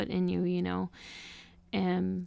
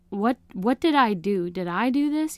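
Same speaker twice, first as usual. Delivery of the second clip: panicked questions; 3 semitones higher, 5 dB louder than usual. Retold or imitated. Retold panicked thoughts.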